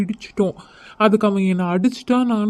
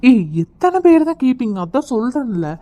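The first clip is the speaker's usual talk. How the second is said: exasperated; 5 semitones higher, 4 dB louder than usual. Acted. Fed up with repeated questioning.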